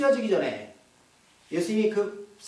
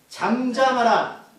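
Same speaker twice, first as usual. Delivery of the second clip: slow, drawn-out order to be silent; stern command; 3 semitones higher, 3 dB louder, much slower than usual. Retold or imitated. Preacher voices Jesus silencing the demon, slow stern command. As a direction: command it slowly and firmly. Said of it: "나도 명령해요".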